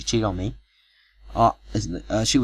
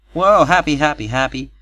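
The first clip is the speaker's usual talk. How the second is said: much higher, louder whoop fading down; cheery whoop; 7 semitones higher, 8 dB louder than usual. A narrator's reading. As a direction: cheer it like a wedding toast. Cheering the wedding.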